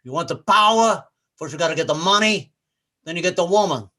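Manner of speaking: hint of a movie gangster impression; lightly accented gangster speech, punching line ends; Scarface. Comic quotes a movie gangster's speech on power, gangster impression. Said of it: "I remember that speech from Scarface".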